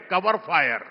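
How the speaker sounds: Cover fire repeated softly; quiet echo. Real, not acted. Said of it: "कवर fire देते हैं". (Cover fire धीमी आवाज़ में)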